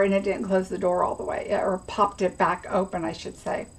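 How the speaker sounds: talking through the hiccups; hiccupy, trailing off to unvoiced. Real, not acted. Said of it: "Sorry, I've got the hiccups".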